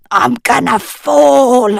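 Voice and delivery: high, gasping panic. Acted. Anadil dangling from a melting icicle, gasping. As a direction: gasp out the fear of falling. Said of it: "Anadil gasped".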